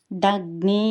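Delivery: దగ్ని slow and loud, pressing on the గ్ని; pressed conjunct. Shown as a demonstration. Teacher shows that the conjunct must be pressed, emphatic దగ్ని. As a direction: lean hard into the గ్ని of దగ్ని. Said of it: "ఒత్తి పలకాలి".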